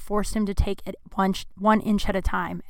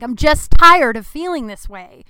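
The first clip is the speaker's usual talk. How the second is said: sharp, much louder snap, slow and higher; snapping; 4 semitones higher, 11 dB louder than usual. Retold or imitated. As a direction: bite back, frustrated and worn out. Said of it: "kinda snapped".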